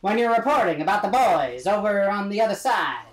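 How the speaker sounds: put-on old radio announcer. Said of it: "it kinda sounds like this".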